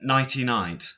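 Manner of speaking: "Nighty Night" said distinctly, no n before the t; corrective repeat. Shown as a demonstration. Repeating the show title for a co-host, "Nighty Night" said distinctly. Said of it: "I thought you said ninety-nine then".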